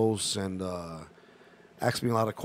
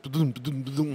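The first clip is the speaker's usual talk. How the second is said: heartbeat imitation. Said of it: "my heart's like".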